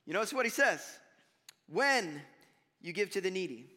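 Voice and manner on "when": "When" set apart, falling, with a pause after; stress on When. Shown as a demonstration. Preacher showing it is when, not if, stressed "When". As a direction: land firmly on "When" and let it hang.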